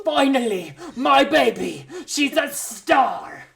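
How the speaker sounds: half-hearted Russian mom cheering; Russian accent attempt. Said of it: "I can't do a Russian accent".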